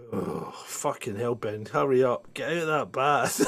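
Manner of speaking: low, grumbling mock impatience; mock exasperation. Nagging Ben out of the bath, mock exasperated. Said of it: "I'll be going".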